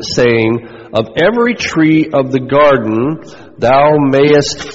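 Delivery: slow, measured reading of scripture. Acted. Pastor reading Genesis aloud to the congregation, slow and solemn. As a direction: read the verses deliberately, word by word.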